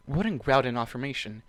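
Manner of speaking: ordinary delivery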